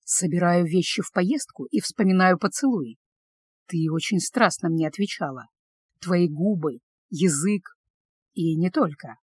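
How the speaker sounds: quiet intimate read. A narrator's reading. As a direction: murmur his words intimately. Reading his intimate message. (тихо, ниже, интимно)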